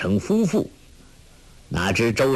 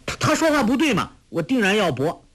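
put-on very high, fast, stammering girl; stubborn insistence; 10 semitones higher, faster than usual. Girl insisting to the farmer she must argue, high and fast. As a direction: stammer out a protest, much higher and quick.

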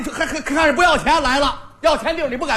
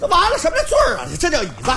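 exasperated scolding. Acted. Barber scolds customer.

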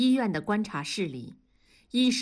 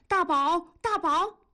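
much higher calls, pitch climbing on each name; frantic high cries down the phone; urgent shouting; 11 semitones higher than usual. A narrator's reading. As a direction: keep calling his name, rising in alarm. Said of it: "一个劲儿地喊".

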